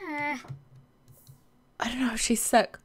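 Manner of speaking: whisper, very slow and drawn out; hushed fretting whisper; slow worried whisper. Real, not acted. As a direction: breathe it out like you fear the answer. Repeats worry in different ways.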